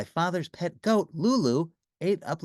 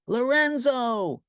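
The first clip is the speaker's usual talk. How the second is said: slow, longing joyful call; joyful cry; 9 semitones higher, 4 dB louder, much slower than usual. A narrator's reading. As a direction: call to your love through the wall. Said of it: "cried Lucretia".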